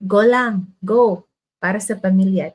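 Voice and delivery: pushing yourself on, loud; loud self-pep talk; loud urging. Retold or imitated.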